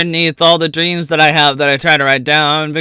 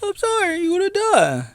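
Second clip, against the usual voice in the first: mock dire warning; 4 dB quieter than usual. Repeated dramatic punchline.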